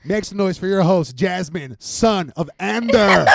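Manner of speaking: slow grand announcer. Pretend. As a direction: stretch it like a ring announcer. Grand host introduction.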